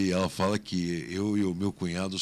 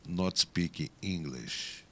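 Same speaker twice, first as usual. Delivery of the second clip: retold clerk; 4 semitones lower, 5 dB quieter, much slower than usual. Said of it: "falou assim".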